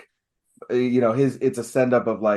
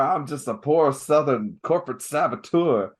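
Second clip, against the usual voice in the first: mock Southern accent; 3 semitones higher than usual. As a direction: put on a cartoon Southern accent. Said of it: "it's not a Foghorn Leghorn accent".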